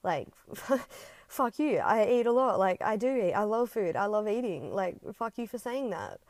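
hammed-up defensive outburst; mock angry comeback. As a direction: snap back at him, ego to ego. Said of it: "fight back to his ego and just say".

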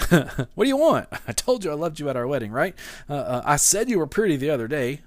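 fast, laughing, mock-defensive spouse; exasperated husband. Husband defending his silence to wife, mock exasperated. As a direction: rattle off excuses with a laugh. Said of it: "we might have that thought".

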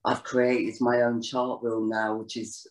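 talking around a sweet; words round a sweet in the mouth; mouth full. Real, not acted. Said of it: "I've got a sweet in my mouth".

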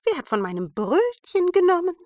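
hoch und lauter, WER betont; dritter Zwerg. A narrator's reading. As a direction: aufgebrachte Zwergenfrage. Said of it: "Der dritte". (hohe, lautere Zwergenstimme)

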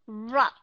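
"rup" with a clear short U. Shown as a demonstration. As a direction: give "rup" a full short U. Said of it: "chúng ta đọc âm short U".

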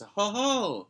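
high cartoon mouse chuckle; Mickey Mouse. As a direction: falsetto mascot laugh. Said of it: "that's why I feel like I just".

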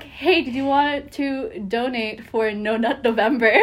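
laughing through the question. Retold or imitated. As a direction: giggle through the blunder. Retold cashier blunder, laughing.

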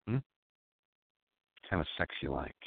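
slow, soft mock-seductive croon; sexy voice. Host crooning to listeners in a mock sexy voice. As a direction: lay on the fake seduction. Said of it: "My sexy voice".

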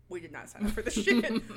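loud exasperated doctors; yelling we're out of here; mock yell. Podcaster quoting fed-up doctors, loud mock yell.

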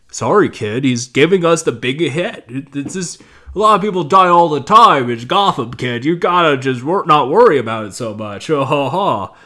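lightly voiced brush-off with a fake laugh; a hint of a gruff cop fobbing someone off; dismissive police chief. Police chief brushing off the grieving kid, lightly acted dismissiveness.

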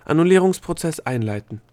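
loud, high official proclamation. A narrator's reading. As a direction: proclaim the procedure like an alarm system. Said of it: "plötzlich mit erhobener Stimme".

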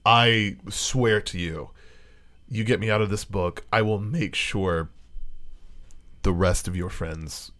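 a hint of a grave pledge, with long pauses; talking book. Book bargaining with the character for release, lightly voiced solemn promise. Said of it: "the book will say to you".

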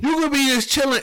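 high, lilting put-on chill; a high, teasing drifting voice; mock chill. Picturing himself chilling at sea, high and lilting.

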